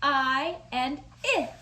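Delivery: "I" said as a short i as in it; short I sound. Shown as a demonstration. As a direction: say "I" as the short vowel i. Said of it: "It goes".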